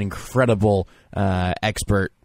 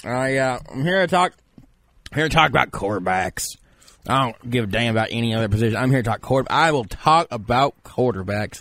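lightly raised voice of a self-styled expert; pompous draft expert. Acted. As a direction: play a smug know-it-all analyst. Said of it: "you might be surprised to know that I sound this way".

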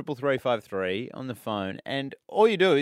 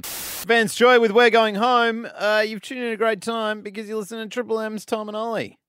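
silly radio voice; 9 semitones higher, 5 dB louder than usual. Real, not acted. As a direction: croon it like a cheesy DJ. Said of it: "What's that voice?".

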